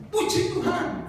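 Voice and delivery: high-pitched imitation of a joyful caller; joyful cry. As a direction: cry out in mock elation, without much volume. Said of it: "Enggak, dia teriak". (seruan sukacita bernada tinggi)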